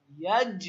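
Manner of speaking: ইয়াজ with the final জ pushed into a short echo; ইয়াজ, last consonant released firmly; qalqalah bounce. Shown as a demonstration. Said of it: "একটা ধাক্কা দিলাম".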